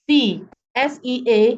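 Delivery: "sea" said slowly, then spelled S E A letter by letter; slow and clear, for a class. Shown as a demonstration. Teacher to class, spelling the word slowly. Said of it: "Let's say I have words like".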